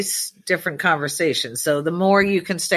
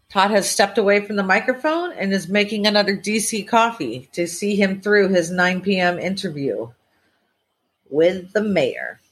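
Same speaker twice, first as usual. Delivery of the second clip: radio host voice. Acted. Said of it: "He does not like my voice right now".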